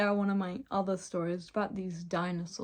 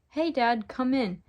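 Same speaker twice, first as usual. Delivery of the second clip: raised, cheerful call to Dad; excited yell; 5 semitones higher, 5 dB louder than usual. Acted. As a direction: call out an eager welcome. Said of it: "Bugsy yelled excitedly".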